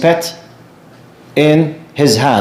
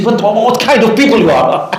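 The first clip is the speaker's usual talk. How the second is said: higher, stammering disbelief; stunned outburst; 6 semitones higher than usual. Retold or imitated. Drunk men cry out at the calm preachers, stunned. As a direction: sputter out the question in shock. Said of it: "They became crazy".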